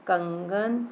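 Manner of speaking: कंगन with कं sounded through the nose; nasal sound. Shown as a demonstration. Teacher repeats the example, कंगन through the nose. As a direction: let कंगन ring nasally. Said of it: "नाक से निकल रही है ना आवाज़".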